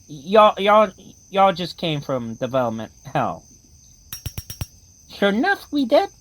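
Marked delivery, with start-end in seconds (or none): 5.1-6.1 put-on higher, childlike tin soldier; a tin soldier warning of a monster outside; toy soldier voice. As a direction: squeak it out like a frightened toy. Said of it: "the ones with the terrible accents".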